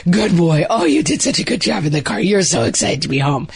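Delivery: praising a dog. Retold or imitated. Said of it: "talk to dogs".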